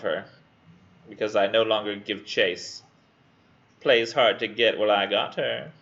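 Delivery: lightly voiced creep; creepy pursuer. Student voicing the poem's smug pursuer, mildly creepy. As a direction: give him a touch of creepiness. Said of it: "trying to make him sound as creepy as possible".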